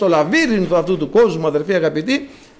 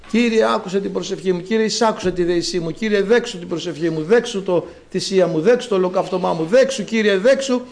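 mock nagging prayer. Priest mocks believers who only beg, mildly whining. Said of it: "συνέχεια πάμε".

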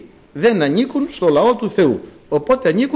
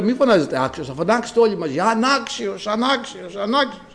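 retold instruction to the brothers; 4 semitones higher, 3 dB quieter than usual. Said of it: "λέω".

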